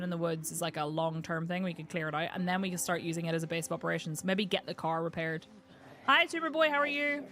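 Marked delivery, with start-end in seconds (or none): 6.1-7.2 high, cheery sing-song greeting; mock friendly greeting. Real, not acted.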